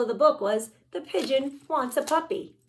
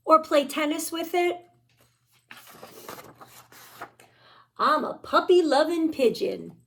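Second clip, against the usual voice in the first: accusing pigeon. Acted. Pigeon sulking, accusing the readers.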